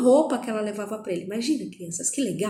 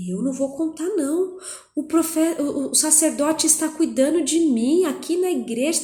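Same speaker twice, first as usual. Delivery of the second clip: put-on scared boy; 5 semitones higher than usual. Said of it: "Ficou com medo".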